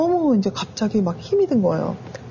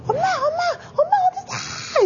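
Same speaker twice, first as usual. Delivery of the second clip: very high imitated child wail; crying children; slower than usual. Children search for their hidden mother, imitated crying calls. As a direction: mimic little kids calling out for mom in tears. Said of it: "애들 막 울어요".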